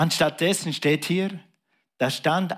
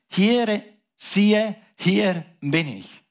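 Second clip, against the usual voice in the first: eager reply; 5 semitones higher, much slower than usual. Acted. Abraham answers God eagerly.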